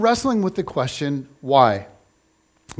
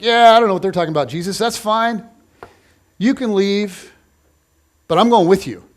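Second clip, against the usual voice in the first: fast, louder eager boast; eager Peter; 2 semitones higher, 4 dB louder than usual. Retold or imitated. Pastor voicing Peter to Jesus, fast eager boast. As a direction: rush it out like the keen one trying to impress. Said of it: "And Peter's like".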